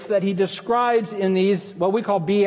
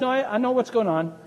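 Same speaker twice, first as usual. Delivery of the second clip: meek Jesus; 3 semitones lower than usual. Retold or imitated. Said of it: "in meekness".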